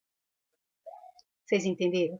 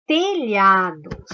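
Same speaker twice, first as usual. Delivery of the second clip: slow teacher reading; 6 dB louder, much slower than usual. Shown as a demonstration. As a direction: say telhados slowly and loud, each syllable clear. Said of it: "Qual é o dígrafo da palavra telhados?". (telhados lento, bem pronunciado)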